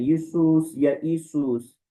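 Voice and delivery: यीशुस said with and without the ye sound; यीशुस, once jee-sus, once ee-sus; two variants. Shown as a demonstration. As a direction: contrast both readings of यीशुस. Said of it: "ये की sound भी निकाल लेते हैं".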